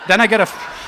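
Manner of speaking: laughing through the words; breaking up mid-sentence. Real, not acted. Laughing while telling the story.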